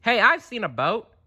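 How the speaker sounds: high, chirpy helpful voice; Dory. Acted. Dory offering to lead Marlin to the boat. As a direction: bounce it out eagerly. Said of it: "she said".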